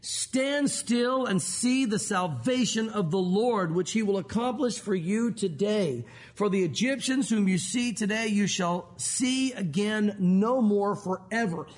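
slow, measured proclamation; slow, deliberate recited quote; solemn scripture reading. Retold or imitated. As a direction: read it out slow and weighty. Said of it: "And Moses says this".

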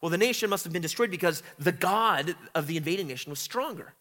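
shrugging ancient view. Retold or imitated. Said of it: "the general predominant thought was".

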